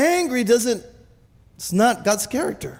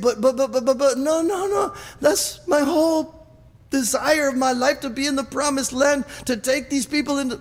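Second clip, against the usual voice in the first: pleading Moses; 5 semitones higher than usual. Retold or imitated. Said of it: "And Moses said".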